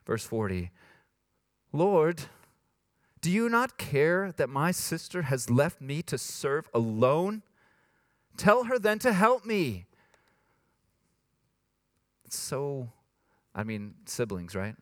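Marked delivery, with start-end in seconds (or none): 1.7-9.9 mildly whiny Martha complaint; a touch of whine, rising at the end. Acted. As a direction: whine it as a put-upon plea. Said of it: "like, a whiny voice".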